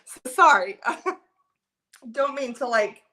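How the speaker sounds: real tearful, embarrassed apology; half laughing, half crying. Real, not acted. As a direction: apologize through tears and small laughs. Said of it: "cry on you guys".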